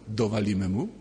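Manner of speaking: low, sly proposal with a rising end; lightly voiced little troublemaker egging on a partner; scheming inner child. Inner child tempts the priest to get someone, low and sly. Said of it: "podziemne dziecko mówi".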